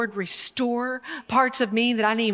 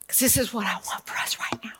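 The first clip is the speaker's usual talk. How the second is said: whisper; 6 dB quieter, faster than usual. Real, not acted. Intimate aside to listeners.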